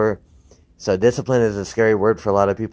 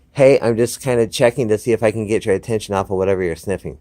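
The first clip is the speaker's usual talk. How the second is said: casual check-in. Shown as a demonstration. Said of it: "sometimes it's like".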